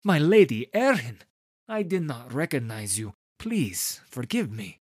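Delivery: bow and apologise in a rush; flustered apology. A narrator's reading. Director apologising to his patron, flustered.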